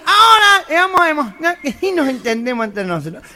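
discurso nasal y rápido; presidente gangoso. Acted. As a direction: anuncia de corrido imitando a un gangoso. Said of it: "el presidente sube al pupit". (presidente gangoso con prisa)

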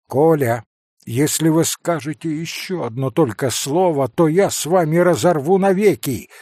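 loud, firm rebuke; commanding shout. Acted. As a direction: lay down the law loudly. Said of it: "властно крикнул Алёша".

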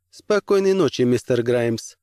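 a crisp lady's goodnight; cool commissioner. Acted. Commissioner answers goodnight, higher.

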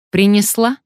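high, loud eager demand; man's impatient demand; eager question. Acted. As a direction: pounce on it hopefully. Man demands the stolen key.

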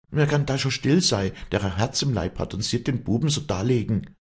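high, loud, distraught wail; wailing lament. A narrator's reading. Afra protesting at Josef's sickbed, wailing lament. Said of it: "wehklagte Afra".

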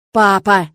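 firm, pressing call of Papa; insistent. A narrator's reading. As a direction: daughter pressing her father, insistent tone. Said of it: "с нажимом произнесла я".

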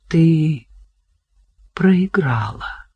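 slow, half-whispered verdict; quiet. A narrator's reading. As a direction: let it drop softly, almost breathless. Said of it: "тихо сказал он". (тихо, почти шёпотом)

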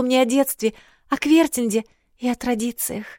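a princess rambling about her walk; chattering young girl. A narrator's reading.

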